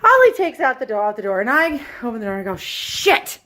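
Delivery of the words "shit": under-the-breath curse, almost voiceless; muttered oath in dismay; whispered curse. Retold or imitated. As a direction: hiss the swear word out under your breath. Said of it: "Yes, I swore".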